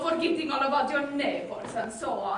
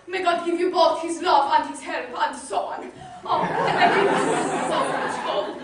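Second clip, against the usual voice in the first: laughing blessing; 2 semitones higher, 3 dB louder than usual. Acted.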